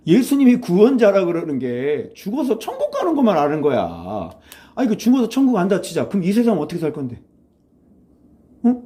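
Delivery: exasperated, high-starting challenge; mock telling-off with pressing questions; retold scolding. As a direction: take them to task, starting high and falling away. Retold scolding of a young acquaintance.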